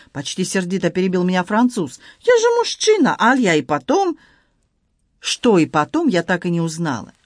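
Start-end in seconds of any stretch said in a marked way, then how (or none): 2.2-4.2 excited Frenchman in broken Russian, high; Antoine voice. Acted. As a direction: play the flustered Frenchman, pitched high. Antoine speaks.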